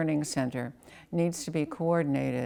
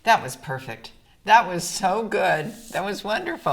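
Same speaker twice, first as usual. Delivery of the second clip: excited praise; 5 semitones higher, 7 dB louder than usual. Real, not acted. Tester praises child's reading.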